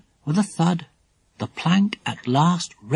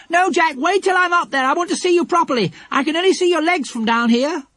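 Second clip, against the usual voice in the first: high, hurried protest; urgent shout; 3 dB louder than usual. A narrator's reading. Lucy Ann stopping Jack from below, shouting. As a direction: call up in a high voice to stop him. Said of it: "a shout from Lucy Ann stopped him".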